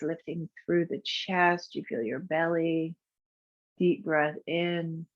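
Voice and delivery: calm, unhurried guiding voice for a breath practice; guided meditation. Acted. Teacher guiding a class through breath practice, soothing. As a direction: lead the breathing gently and evenly.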